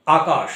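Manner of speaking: আকাশ with a hissing final শ; hissing sibilant. Shown as a demonstration. Teacher demonstrating the sibilant to students, আকাশ ending in a hiss. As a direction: let the শ of আকাশ whistle out. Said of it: "এই যে একটা hissing".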